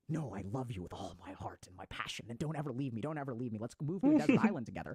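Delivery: cling on and don't let go; possessive lover. Retold or imitated. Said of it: "It is".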